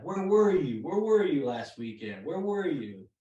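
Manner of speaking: lightly acted reproachful questioning; mock interrogation of a no-show; mildly demanding. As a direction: press the question with a swooping emphasis. Retold woman confronting a coworker.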